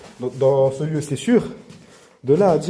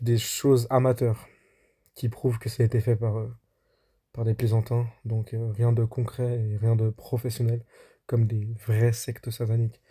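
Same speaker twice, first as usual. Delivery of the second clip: voice-over narration. Acted. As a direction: tell it like a documentary voice-over. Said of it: "on se retrouve pour la voix off".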